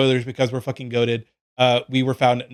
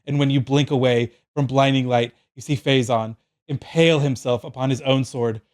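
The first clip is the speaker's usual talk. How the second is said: measured, solemn reading of an epic scene; game master narration. A narrator's reading. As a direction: read it like a fantasy tale, phrase by phrase. Reads out the DM's written narration.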